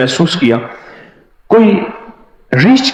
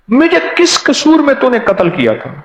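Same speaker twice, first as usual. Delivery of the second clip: ghost's accusation; 8 semitones higher than usual. Retold or imitated. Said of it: "اور مجھے کہتا ہے".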